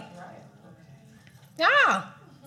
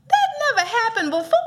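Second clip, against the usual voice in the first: emphatic preaching; 7 semitones higher, 4 dB louder than usual. Real, not acted. Preacher repeats line with emphasis.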